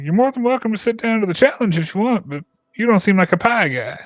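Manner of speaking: high, doubtful invitation; teasing villager. Acted. Villager inviting the warforged to the contest, doubtful. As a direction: size him up, mildly teasing.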